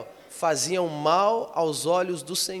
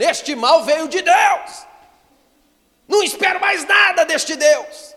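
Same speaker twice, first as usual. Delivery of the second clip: very high, very loud drawn-out yell; shouting king; 10 semitones higher, 11 dB louder, slower than usual. Retold or imitated. Preacher acting the king arriving at the prophet, shouting. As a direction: scream it as the king bursting in. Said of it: "Já chegou gritando".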